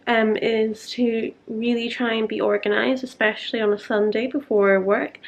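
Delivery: talking with a retainer in; words slurred round a retainer; wearing a retainer. Real, not acted. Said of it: "Sorry, I've got my retainers in".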